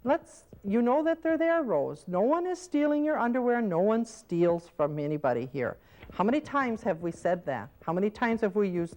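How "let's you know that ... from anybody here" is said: correcting caregiver. Shown as a demonstration. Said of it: "Now you could say to me".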